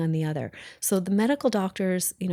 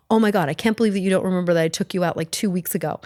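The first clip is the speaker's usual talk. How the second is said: mock defensive husband; faster than usual. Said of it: "he would get defensive".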